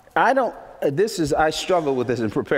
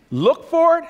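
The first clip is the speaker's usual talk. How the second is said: high preaching call; 13 semitones higher, 5 dB louder than usual. Acted.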